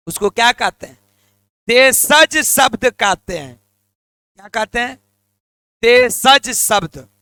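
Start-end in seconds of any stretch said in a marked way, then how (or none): 1.7-3.6 slow. Shown as a demonstration. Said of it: "एक बार फिर से बोलो". 5.8-7.1 देशज शब्द drawn out slowly, each syllable held; slow drilled answer. Shown as a demonstration. Teacher drilling class, says देशज शब्द very slowly. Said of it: "फिर से बोलिएगा".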